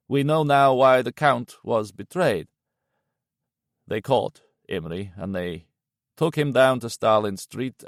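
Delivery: slow, heavy voice of grief; grim old Yanchi. Acted. Yanchi explaining Imri's fate, heavy and slow. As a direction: lay out the horror wearily.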